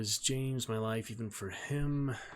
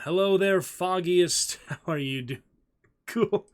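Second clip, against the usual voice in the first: excited greeting; 6 semitones higher, 9 dB louder, slower than usual. Real, not acted. Greeting a returning chatter.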